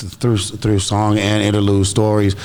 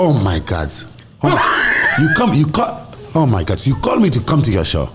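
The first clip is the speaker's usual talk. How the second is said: mock outburst. Mock outburst about doing accents.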